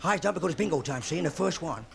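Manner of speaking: gangster bingo caller voice; James Cagney bingo caller. Retold or imitated. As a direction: call bingo like a tough gangster. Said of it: "I think it'd go something like this".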